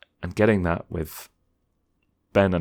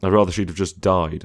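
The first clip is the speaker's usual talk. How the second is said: mock complaining fan. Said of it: "People saying".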